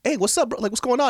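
high, bright-eyed hello; teen greeting his old friend's little brother; overly cheerful greeting. Retold or imitated. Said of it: "And I'm like".

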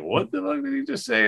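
very high, stretched mock astonishment on fuck; stunned disbelief. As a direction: play your own jaw dropping. Teller's own disbelief retold.

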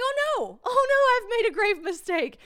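high, loud wail of dismay; hammed-up horror at a blunder; mock panic. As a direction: cry out in exaggerated regret. Reenacted horror at own mistake.

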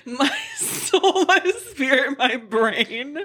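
laughing. Retold or imitated. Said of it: "laughs while echoing the lines".

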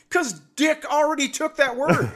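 high, hammy punchline voice; mock exasperated. Dad's punchline retort.

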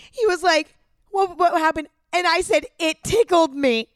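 high, squeaky retelling; tearful with laughter. Real, not acted. Repeating what she told the boy, tearful with laughter. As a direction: push the words out high through leftover laughter. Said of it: "oh my God, I'm crying".

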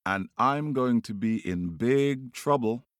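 very high, worked-up bird voice; calling out. A narrator's reading. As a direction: rattle off the demands in a high call. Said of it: "he calls out to the dog".

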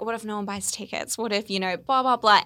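sneering fake sweet inner critic; lightly voiced mean girl, sneering. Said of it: "my mean girl voice came and I was like".

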